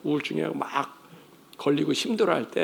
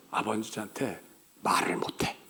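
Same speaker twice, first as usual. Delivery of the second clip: put-on the boy who can't tell his father, whispered; hushed whisper; 7 semitones lower, 9 dB quieter than usual. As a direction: breathe it out in a whisper. Child hiding broken vase.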